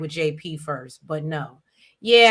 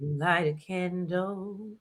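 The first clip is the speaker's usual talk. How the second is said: nice polite voice; 6 dB quieter, much slower than usual. Retold or imitated. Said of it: "in my nice, polite voice".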